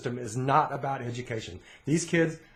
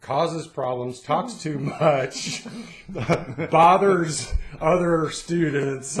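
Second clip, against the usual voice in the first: mock report card; 2 semitones higher, 4 dB louder, much slower than usual. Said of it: "all my report card says".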